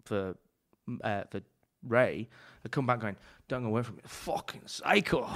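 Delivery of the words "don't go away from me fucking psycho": retold outburst rising to a shout; mock outburst. Cook back from working for a psycho, mock outburst. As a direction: imitate a mate, shouting the last words. Retelling a workmate's angry warning.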